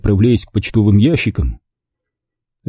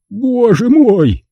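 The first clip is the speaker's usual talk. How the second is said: very high, drawn-out exclamation; shocked cry; 13 semitones higher, 3 dB louder, much slower than usual. A narrator's reading. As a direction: echo the horror, pitched high and slow. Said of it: "вскричал гангстер".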